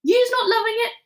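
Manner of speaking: high, wide-eyed innocent asking; a sly giant feigning innocence; innocent question. A narrator's reading. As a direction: play dumb sweetly. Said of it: "the B F G asked innocently".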